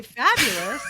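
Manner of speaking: smiling fabulous. Shown as a demonstration. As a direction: demonstrate a smile in the voice. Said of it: "you can hear it".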